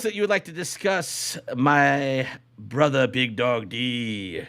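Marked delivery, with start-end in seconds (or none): 1.6-4.4 drawn-out announcer call of the name; playful host calling his co-host by nickname; hype-man name call. Pretend. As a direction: stretch the name out like a ring announcer. Host hypes co-host's name.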